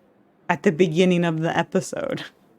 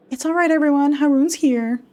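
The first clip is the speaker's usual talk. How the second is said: calling out; 8 semitones higher, 3 dB louder than usual. Acted. Neighbour calling from hallway.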